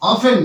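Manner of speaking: careful, falling "o-fen" for অফেন; correct pronunciation. Shown as a demonstration. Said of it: "উচ্চারণটা আসবে".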